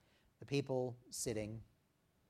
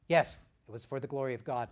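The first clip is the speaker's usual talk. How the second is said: louder, quick joyful owning of it; glad and proud; 5 dB louder, faster than usual. Shown as a demonstration. Preacher showing the right answer to praise, joyful. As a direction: own the gift with open delight. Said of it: "that's a good way to do it".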